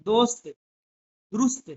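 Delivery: slow, spelled-out lesson reading; slow reading drill. Shown as a demonstration. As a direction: read each word out slowly for the class. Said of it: "आप पढ़ सकते हैं".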